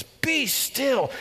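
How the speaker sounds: high, ringing command; God speaking in first person, commanding; God's voice. Pretend. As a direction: call it out like God interrupting. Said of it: "He breaks into first person narrative and he says".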